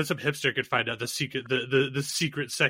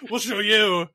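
hammed-up Klansman threat, higher pitched; mock defiance; 3 semitones higher, 3 dB louder than usual.

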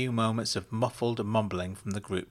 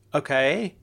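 phone voice; 5 semitones higher, 5 dB louder than usual. A narrator's reading. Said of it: "said Benedict's voice".

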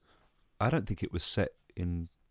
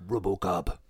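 whispered; slower than usual. Pretend. Whispered title after trailer.

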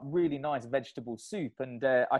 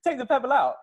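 half-laughing, pitched up, take the pebble out; laughing it out, playful and louder; laughing mock advice; 10 semitones higher, 7 dB louder, faster than usual. Teasing his running partner about the pebble, laughing. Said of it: "You'll be like".

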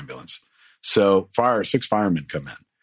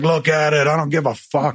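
carefree bravado; 7 semitones higher than usual. Retold or imitated. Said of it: "that fucking dude who's like".

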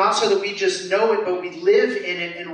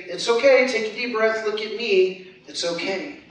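gentle comfort; 3 semitones higher than usual. Acted. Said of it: "a good parent with compassion and love will say".

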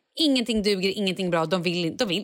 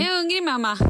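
put-on small child asking; 9 semitones higher than usual. Son Leo quoted in the car.

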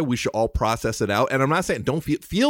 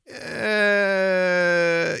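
choked up; 5 semitones higher than usual. Real, not acted. Moved to tears mid-sentence.

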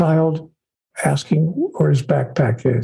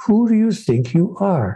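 higher-pitched, earnest rhetorical question; spiritual question; 4 semitones higher than usual. Shown as a demonstration. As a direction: pose it as a sincere question. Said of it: "the spiritual question of all time".

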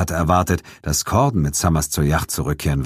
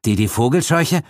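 nervous; 7 semitones higher than usual. Acted. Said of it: "fragte Ferguson nervös".

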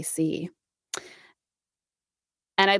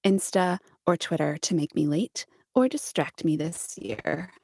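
terrible Kim Kardashian; 2 semitones lower than usual. Acted. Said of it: "That wasn't Kim Kardashian at all".

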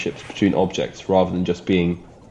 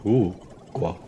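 French duck accent. Shown as a demonstration. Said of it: "a French one would be like".

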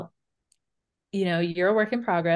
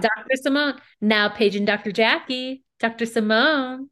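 announcer voice; 2 semitones higher than usual. Retold or imitated. Mimicking show's announcer intro.

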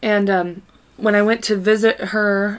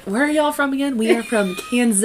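put-on Southern twang, pitched up; hammed-up Southern accent; 4 semitones higher than usual. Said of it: "Do y'all think I was gonna talk like this".

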